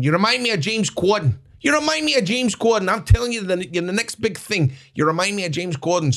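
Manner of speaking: high, insistent imitation of an agent's pitch; excited agent. Agent cornering a wrestler to hype him, excited mimicry.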